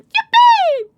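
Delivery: laughing cheer. Real, not acted. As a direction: shout it out with joy.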